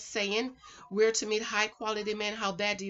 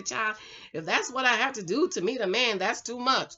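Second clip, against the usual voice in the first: a lightly voiced sceptical woman, emphatic; hint of mock protest; objecting listener. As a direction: imitate someone balking at the advice. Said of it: "I can hear someone say".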